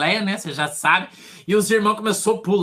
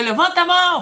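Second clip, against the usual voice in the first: much higher and louder, barked order; shouted command; 12 semitones higher, 5 dB louder than usual. Retold or imitated. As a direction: yell it at the man kneeling up front. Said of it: "mas eu gritei pra ele".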